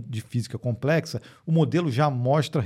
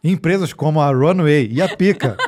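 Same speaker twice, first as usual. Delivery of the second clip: laughing; 7 dB louder than usual. Real, not acted. Reading through co-host's laughing fit.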